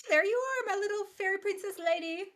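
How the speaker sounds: high-pitched coo to a pet; sweet little singsong greeting, pitched right up; cooing pet talk. Retold or imitated. Owner retells finding the dog that blended in, cooing high.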